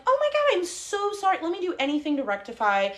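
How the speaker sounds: high-pitched, over-the-top apology; apologetic phone manner. Retold or imitated. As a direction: gush an apology to placate someone angry. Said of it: "I'm like".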